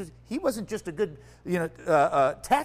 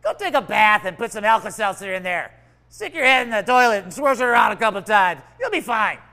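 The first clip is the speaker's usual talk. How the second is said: louder, jokey brush-off; mock offhand advice; 7 dB louder than usual. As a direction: toss off silly instructions. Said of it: "It's like".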